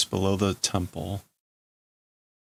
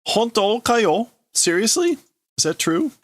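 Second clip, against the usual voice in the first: shocked disbelief; 13 semitones higher, 4 dB louder than usual. Acted. Friends hear news about Kei, high shocked question. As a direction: gasp it out in disbelief.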